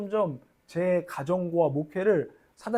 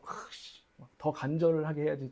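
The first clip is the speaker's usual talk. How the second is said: muttered resolve; 2 semitones lower, 7 dB quieter than usual. Retold or imitated. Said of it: "어느 순간 내가 막".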